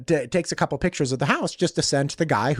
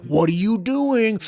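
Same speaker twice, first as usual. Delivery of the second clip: confrontational; 7 semitones higher than usual. Retold or imitated. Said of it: "Teed up, ready to go".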